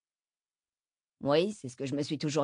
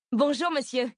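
bright, much higher eager hello; sudden adorable enthusiasm, louder; exclaimed greeting, pitched up high; eager exclamation; 8 semitones higher, 4 dB louder than usual. A narrator's reading. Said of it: "s'exclama Bess".

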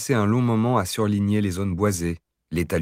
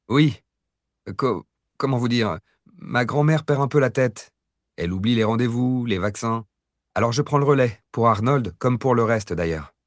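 higher and louder, eager; eager grandson voice; 4 semitones higher, 3 dB louder than usual. Acted. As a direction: gush like a helpful grandson. Pretends to be worried grandson.

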